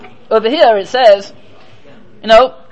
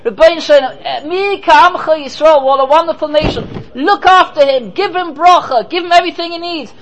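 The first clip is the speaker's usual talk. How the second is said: pleading pauper; 5 semitones higher than usual. Retold or imitated. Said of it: "What's the Oni calling out?".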